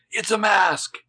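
high-pitched mock proclamation; proclaiming. Imitating Caleb revealing the trick, mock proclamation. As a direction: announce a big reveal, hammed up. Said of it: "he proclaims".

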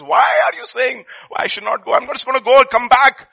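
put-on high, bright young wife, brushing him off; wife laughing off his worry, high voice; wife's voice. Wife's voice, cheerful dismissal.

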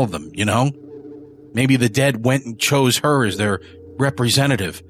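a rough, rattled man confessing; gruff confessing killer. Acted. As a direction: spill it to the priest, uneasy. Early's confession continues.

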